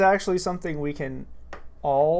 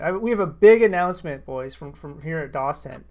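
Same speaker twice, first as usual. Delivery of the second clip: louder hyped announcement; announcer voice; 4 dB louder than usual. Shown as a demonstration. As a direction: announce it like a host. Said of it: "I should have been saying".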